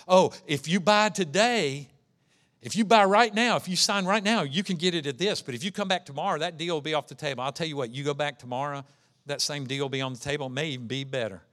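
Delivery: a hint of a fast-talking salesman, rushing the pitch; pushy car salesman. Salesman pressing a buyer to sign today, lightly voiced pushy pitch. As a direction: sell it quickly like a dealer closing today.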